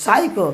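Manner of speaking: সাইকো with a dental S at the start; dental S pronunciation. Shown as a demonstration. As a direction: say সাইকো as "SAI-ko", P silent. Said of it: "পিএস উচ্চারণ হচ্ছে কি দন্ত স".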